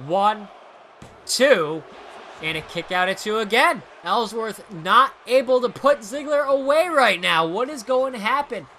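play-by-play announcer voice; wrestling commentator. Acted. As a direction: call the match like TV. Play-by-play of own wrestling game.

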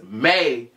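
"may" leaned on as if in capital letters; stress on may. Shown as a demonstration. Telling viewers the word "may" is in caps, stressed. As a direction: hit "may" hard, it's only a maybe. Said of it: "when I say may, put that in caps".

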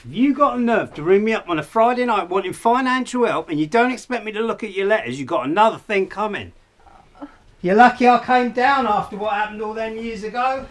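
loud, furious telling-off; angry outburst. Acted. Son rounds on his mother for ringing him for money, loud and furious. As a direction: tear into her for asking for money.

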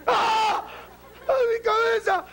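high, loud mock cry of pain; pained yell. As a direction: yelp as if slapped on the bald head. Bald man slapped on head.

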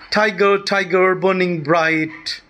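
"Tiger, Tiger, Burning Bright" slowed, first syllables stressed; trochaic verse recitation. Shown as a demonstration. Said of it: "so many trochaic, uh, lines".

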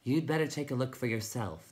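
lightly twittering little voice; a touch of birdlike chirp, slightly high; twittered. Acted. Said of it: "the Tiny twittered".

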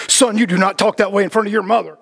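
a hint of a scolding mother; stern mom. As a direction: lightly voice mom telling her son off. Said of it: "my mom gets really mad".

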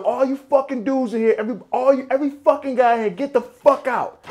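high-pitched, mildly heated command; retold angry order. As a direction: clear the room, acting out the irritation. Retelling his order clearing the room.

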